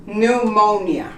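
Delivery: Pneumonia with no P, N first; silent P. Shown as a demonstration. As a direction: say Pneumonia starting straight on N. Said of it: "You don't pronounce the P".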